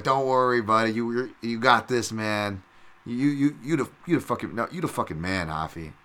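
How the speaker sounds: mildly pumped-up encouragement, retold. Fan reassuring the fighter before his bout, pumped up. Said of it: "really pumped".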